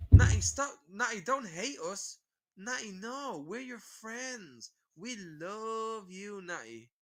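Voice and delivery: high, slow, whiny fake pleading; mocking voice of trolls pretending to care. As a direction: whimper like a fake friend begging.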